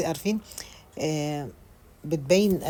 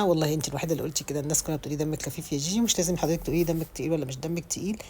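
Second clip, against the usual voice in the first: normal talking voice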